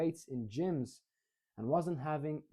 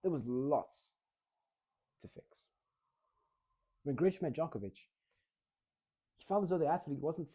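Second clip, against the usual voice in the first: varied pace. Shown as a demonstration. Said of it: "parts where I went a bit faster".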